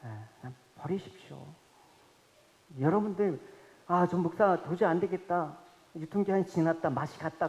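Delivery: preacher prays to be discarded, soft and humble; quiet prayer. Retold or imitated. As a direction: murmur it humbly to God. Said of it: "기도를 했어요".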